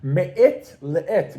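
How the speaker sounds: slow "Me'et le'et" in modern Hebrew, hard T endings; modern Hebrew accent. Shown as a demonstration. Teacher translating the phrase for class, modern Hebrew accent. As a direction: say it slowly with an Israeli Hebrew accent. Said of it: "pronounce it first with a modern Hebrew accent".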